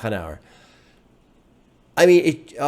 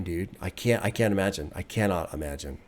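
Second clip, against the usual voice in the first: near tears; 5 semitones lower, 8 dB quieter than usual. Real, not acted. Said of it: "I will just start legit crying".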